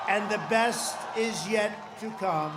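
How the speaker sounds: shouted, BEST hit hard; loud rally shout. Real, not acted. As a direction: belt it to the crowd. Rally climax line.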